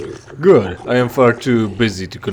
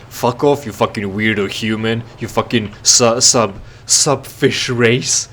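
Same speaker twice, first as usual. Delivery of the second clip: racist NPC rant; 3 semitones higher than usual. Retold or imitated. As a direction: spit the insults like a rude dockworker. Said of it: "and he says".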